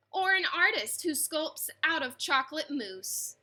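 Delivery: put-on lively read-aloud for children, rhyming bounce; story narration. A narrator's reading. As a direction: read it like a bedtime picture book. Reads picture book aloud.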